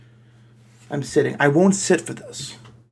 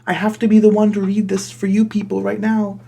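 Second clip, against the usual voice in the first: mock exasperated; 6 semitones higher, 3 dB louder than usual. Real, not acted. Complaining about reading fanfic.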